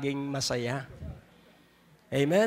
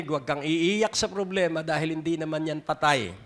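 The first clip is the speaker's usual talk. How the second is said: louder repeat. Acted. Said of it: "Ulitin kong muli, baka hindi mo narinig".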